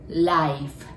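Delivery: "life" with the tongue up for the l and the lip bitten for the f; tongue up on the l, bite the lip on the f in "life"; l and f demo. Shown as a demonstration. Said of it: "Lは舌を上につけ、Fは唇を噛みます".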